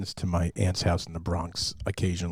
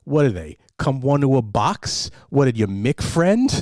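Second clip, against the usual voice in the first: put-on gruff old uncle; 6 semitones higher, 9 dB louder than usual. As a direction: drag it out, scoffing at the gift. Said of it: "and he goes".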